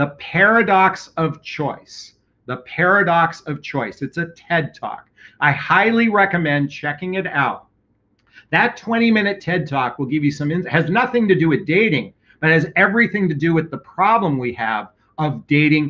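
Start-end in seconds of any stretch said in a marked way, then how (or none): 0.0-4.0 slow, measured, deliberate word-by-word enunciation. Speaker repeats a TED Talk title for listeners, saying it slowly. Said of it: "I'm going to say it slowly".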